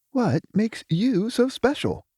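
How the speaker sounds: high, sharp inner shout. A narrator's reading. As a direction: cry it out in your head. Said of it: "shouted Trezor in his head".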